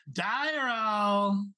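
long drawn-out, high-pitched call; unfamiliar voice yelling. Acted. Game master voices an unfamiliar attacker, drawn-out yell. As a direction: yell the name out, stretching it. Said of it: "some unfamiliar voice yell".

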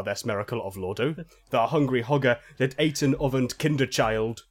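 solemn fake-archaic scripture reading; mock scripture reading. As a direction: read it like garbled holy scripture. Reads fake phonetic bible.

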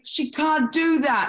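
high, slow, put-on actorly voice; a hammed-up high actor's objection; the inner actor. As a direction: play the fussy inner actor. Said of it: "the actor in me is like".

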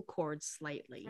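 softened voice. A narrator's reading. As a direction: ease the voice down gently. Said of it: "Maverick softened his voice".

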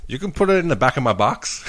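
retold in a put-on American accent. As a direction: imitate an American woman asking a favour. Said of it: "She had, like, American accent".

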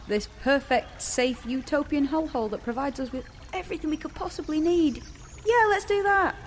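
sarcastic scoff at the plan; sarcastic mockery. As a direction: needle him for the silly idea. Mocks friend's escape idea.

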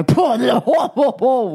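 high, protesting whoas; mock disbelief. Husband butts in on wife's claim, mock disbelief. Retelling partner's mocking interjection.

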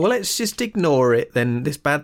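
lightly voiced dismissive auntie; Aunt Mary. Podcaster acting Aunt Mary avoiding the subject, mock breezy. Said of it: "Aunt Mary's like".

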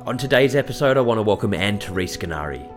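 scripted welcome read to listeners; podcast introduction read; podcast host intro. Acted. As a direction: introduce the guest in a measured presenter's read.

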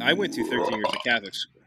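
words pushed out through a burp. Real, not acted. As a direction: burp while saying it. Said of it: "Not, not for the burp".

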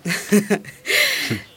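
breathy little laugh. Real, not acted. Laughs after her proverb.

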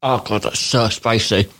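talking through a mouthful of chili; words round a hot bite; mouth full of hot food. Real, not acted. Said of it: "Matt has just done a mouthful of the carrot".

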